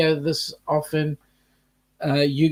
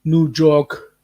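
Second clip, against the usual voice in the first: amateur go at New York accent; attempted New York accent. Shown as a demonstration. Host copying co-host's try, attempted New York accent. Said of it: "I can't do that".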